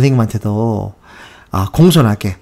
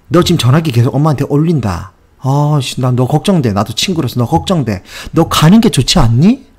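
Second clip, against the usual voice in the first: friendly concern; 2 semitones higher than usual. Retold or imitated. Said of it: "이렇게 얘기한 거예요".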